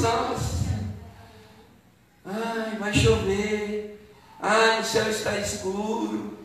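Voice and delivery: soft, drawn-out moan; weary little whine; grumpy complaining. Acted. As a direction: grumble like someone fed up with everything. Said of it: "só reclama, mal-humorado".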